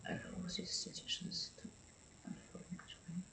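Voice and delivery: near-silent whispered reading; very soft whispered reading. Real, not acted. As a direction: whisper the card's words to yourself. Reading card half to herself.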